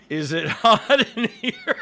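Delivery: slow, laughing repeat of the line; mock quote. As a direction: echo his line back, laughing. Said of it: "Did you say".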